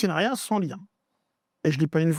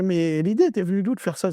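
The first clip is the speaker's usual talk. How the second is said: incredulous, higher as it goes; retold shock; 3 semitones higher than usual. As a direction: pitch climbing in disbelief. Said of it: "Moi, je suis choqué".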